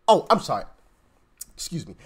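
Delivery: mock the peasant who dares question elites; sarcastic mock apology.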